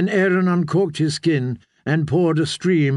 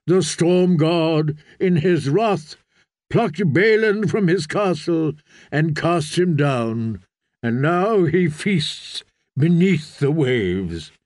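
preaching priest; 2 semitones higher than usual. Acted.

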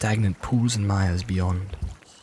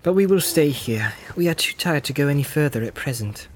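Frodo voice; 4 semitones higher than usual. Acted. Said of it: "said Frodo".

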